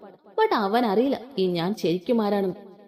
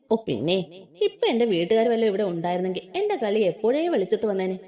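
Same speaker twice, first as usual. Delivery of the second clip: scoffing mock. Husband scoffs at her.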